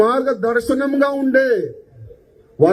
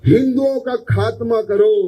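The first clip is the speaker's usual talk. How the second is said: usual speaking voice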